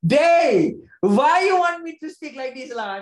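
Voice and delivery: loud, high mock scolding; mock exasperation. Complaining at being made to speak like this, mock exasperation. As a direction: burst out in hammed-up exasperation.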